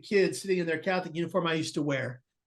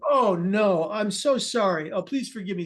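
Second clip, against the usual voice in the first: dismayed apology; 3 dB louder than usual. Retold or imitated. Friar realizes the jump was true.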